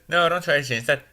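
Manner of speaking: a mother's quick caution; mock mom voice. The mom warns her son in a mock voice. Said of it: "And then she says".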